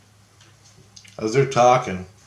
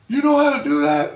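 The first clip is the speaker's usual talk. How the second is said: high-pitched, louder incredulous question; retold amazement; 5 dB louder than usual. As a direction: imitate someone astonished at what you did.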